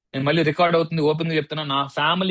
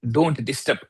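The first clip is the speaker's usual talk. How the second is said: low don't disturb; 3 semitones lower, much slower than usual. Shown as a demonstration. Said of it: "ఇలా చెప్పండి".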